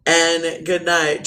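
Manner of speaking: slow, drawn-out farewell in a show voice; a lightly put-on radio sign-off, slow. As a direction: stretch each goodbye word slowly. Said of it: "What about my voice".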